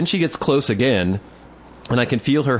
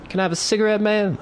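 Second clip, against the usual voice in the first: high, cocky voice of a street guy begging; pitched-up mock street guy asking for a soda; street hustler; 12 semitones higher, faster than usual. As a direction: put on the smoker outside the shop.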